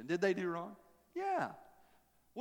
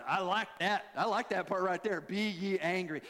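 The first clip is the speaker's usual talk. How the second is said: eager Baptists. Retold or imitated. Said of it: "And all the Baptists said".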